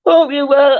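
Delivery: words stretched by a yawn. Real, not acted. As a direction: talk through a big yawn. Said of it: "I'm sorry for yawning".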